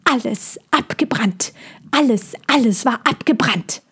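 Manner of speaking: the bird mourning the burned land; grieving bird. Acted. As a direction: repeat the loss like a dirge. Bird recalls the fire.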